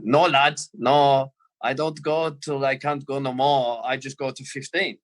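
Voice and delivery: light mock Scouse-German accent, words drawn out. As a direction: imitate a stubborn teammate's odd Scouse-German accent. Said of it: "this weird Scouse German accent".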